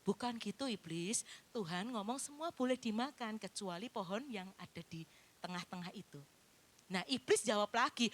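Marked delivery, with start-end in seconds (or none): 0.0-6.2 mild Eve voice. Acted. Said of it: "Mulai Hawanya jawab".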